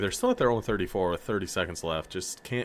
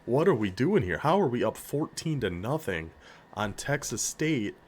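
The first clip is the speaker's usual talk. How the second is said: stunned disbelief; 4 semitones higher than usual. Real, not acted. Stunned his weak team leads.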